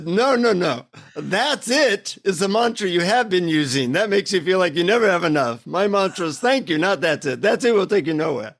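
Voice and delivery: half-laughing imitation of an Indian guru; mildly imitated Indian accent, gently correcting. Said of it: "in his Indian accent".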